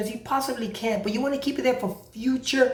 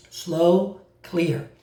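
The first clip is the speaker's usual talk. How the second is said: low, separated words; deliberate, low-pitched instruction; slow and clear; 5 semitones lower than usual. Shown as a demonstration. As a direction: set each word apart, pitched down. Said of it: "you need to say it slow".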